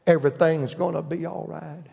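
quiet, soothing reassurance; compassionate. Retold or imitated. Big sisters reassuring their brother, gently compassionate. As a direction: comfort gently, a little hushed. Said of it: "My daddy wouldn't say it quite compassionate".

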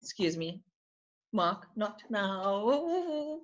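hushed off-mic aside, slow and soft; quiet aside. Real, not acted. Host turning aside to hush Mark, quiet and slow. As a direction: softly shoo someone away mid-interview.

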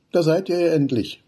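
finally, there you are; eager greeting. Acted. Wudi calling to his friends coming round the corner, eager.

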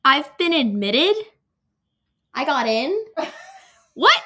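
loud, slow questioning surprise; shocked disbelief. Real, not acted. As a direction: ask as if it can't be true. Unexpected NYU acceptance.

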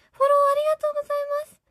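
high, fast, very loud squeal of thanks; excited squeal. Real, not acted. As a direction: shriek your thanks at top speed. Sudden loud thank-you for follow.

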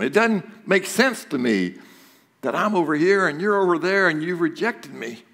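understated agony; mild anguished plea. Acted. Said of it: "expressing the agony".

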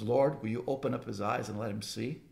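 softly, calmly asking the Lord; calm prayer. Retold or imitated. Elisha calmly asks the Lord to open his servant's eyes. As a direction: pray it quietly and steadily. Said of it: "Elisha calmly says".

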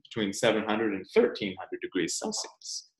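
soft storybook whisper. Acted. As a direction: drop to a secret whisper for the kids. Whispers a detail while reading.

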